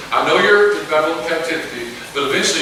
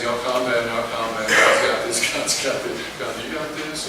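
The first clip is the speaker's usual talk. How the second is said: soothing Moses; 4 semitones lower than usual. Retold or imitated. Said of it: "Moses is saying".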